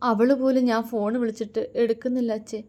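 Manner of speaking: rising, lightly tearful complaint; a hint of sobbing, asking why; mild weeping plea to her father. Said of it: "തേങ്ങലോടെ".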